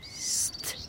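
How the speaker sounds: unvoiced soft shush; hushing. Father hushing his daughter while recording birds, soft shush. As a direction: hush someone quietly.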